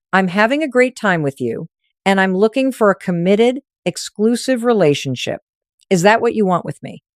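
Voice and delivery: each word set down slowly and evenly; slow and deliberate. Shown as a demonstration. Coach demonstrating the commitment line slowly. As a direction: let every word land. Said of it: "slow enough that each word lands".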